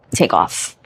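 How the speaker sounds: whisper. Shown as a demonstration. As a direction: breathe the words out as a hushed echo. Repeats the command, second time whispered.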